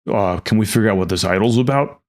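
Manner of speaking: lightly voiced barbarian player; a hint of a hulking barbarian. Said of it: "barbarian voice, apparently".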